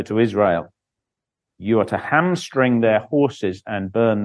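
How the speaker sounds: measured Bible reading aloud; formal church reading; scripture reading. A narrator's reading. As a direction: read it out as scripture to a congregation. Reads Bible chapter aloud.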